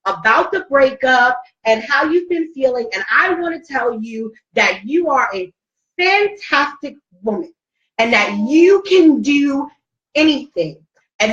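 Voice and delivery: aunt's heartfelt affirmation. Retold or imitated. Aunt telling her niece she is a survivor, heartfelt affirmation. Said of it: "my aunt just goes".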